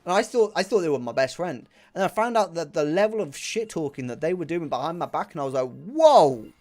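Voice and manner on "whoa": retold shock. Shocked at friend's betrayal.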